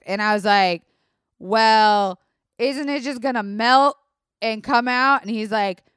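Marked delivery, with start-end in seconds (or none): 1.4-5.2 pushing back. Retold or imitated. Arguing with doctor.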